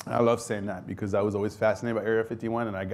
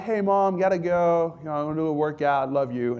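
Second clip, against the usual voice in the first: hurried and higher, brushing Mom off; rushed goodbye; 6 semitones higher, 3 dB louder than usual. Retold or imitated. Soldier rushing to end a call with his mom, hurried and higher. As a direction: get off the phone fast, keyed up. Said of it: "So I'm like".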